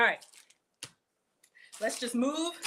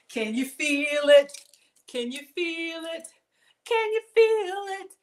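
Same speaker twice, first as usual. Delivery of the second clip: rising dramatic repeats; 6 semitones higher, 6 dB louder, slower than usual. Pretend. Repeated line climbing higher.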